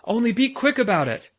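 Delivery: high and loud, hurrying them; excited urging. Acted. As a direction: push the children to hurry. Excited professor urging children.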